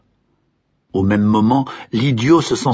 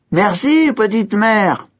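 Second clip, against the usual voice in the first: crié très haut et fort; cri de remerciement; 12 semitones higher, slower than usual. A narrator's reading. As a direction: lancer un merci en s'envolant. Crier à la vieille. (l'idiot crie merci à la vieille)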